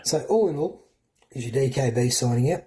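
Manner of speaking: mock American sign-off; American accent. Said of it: "I started trying to talk American then".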